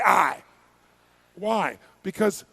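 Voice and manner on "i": short loud call; rallying shout. Real, not acted. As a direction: shout it for the crowd to echo. Calls for audience response.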